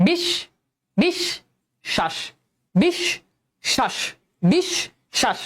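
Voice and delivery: বিশ then শ্বাস, each spoken apart; teacher sounding out বিশ্বাস; syllable by syllable. Shown as a demonstration. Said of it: "শয়ের উচ্চারণ কিন্তু দুইবার হচ্ছে".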